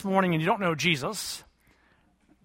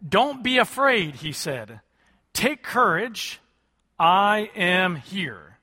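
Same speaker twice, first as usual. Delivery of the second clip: calm reassurance; slower than usual. Acted. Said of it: "Jesus spoke to them".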